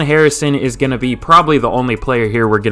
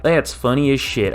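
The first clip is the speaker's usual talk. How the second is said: mock southern delivery; southern accent. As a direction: replay it with a southern twang. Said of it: "a southern accent there. I was like".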